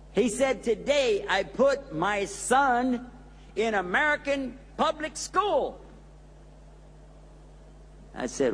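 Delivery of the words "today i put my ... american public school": slow, high, proud imitation of the brother; proud announcement. Brother telling the imam his news, slow and proud. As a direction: savor every word with pride.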